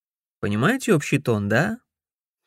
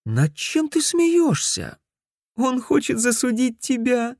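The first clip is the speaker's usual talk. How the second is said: giggling; 12 semitones higher than usual. Acted. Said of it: "она захихикала".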